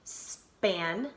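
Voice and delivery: "Spandex" as span, pause, dex; split by syllable. Shown as a demonstration. Teacher showing where the syllables go, split apart. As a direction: break "Spandex" in two with a long gap. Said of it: "let's say that and see".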